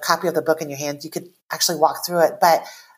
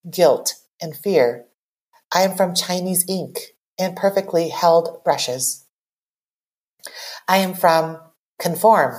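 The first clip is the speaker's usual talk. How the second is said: poem reading. Acted. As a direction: read it like a confession, line by line. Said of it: "go ahead and read it".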